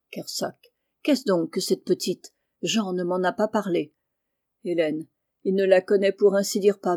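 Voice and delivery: ordinary delivery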